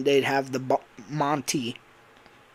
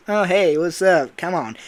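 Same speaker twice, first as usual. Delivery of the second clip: higher, louder hint of Cockney; put-on Cockney accent; 4 semitones higher, 5 dB louder than usual. Eclipse greeting Cassie, mock Cockney. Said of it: "And it'd be Cockney accent".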